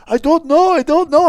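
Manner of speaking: high, loud panicked protest; imitated freak-out. Panicked passenger answering his questioners, mock frantic protest. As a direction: mimic a frightened man pleading ignorance. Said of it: "this guy's freaking the fuck out".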